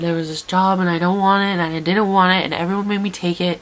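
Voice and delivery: a hint of teary blurting; retold meltdown. Stranded traveller to the diner lady, a mild teary blurt. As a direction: blurt it out close to tears. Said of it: "I completely melted down".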